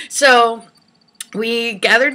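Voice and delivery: usual speaking voice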